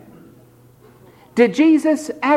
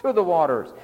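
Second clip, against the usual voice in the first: mock pleading call; 9 semitones higher than usual. Shown as a demonstration. Preacher mocking the whining way of reading the verse. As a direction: sing out the plea like a beggar. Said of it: "Instead of".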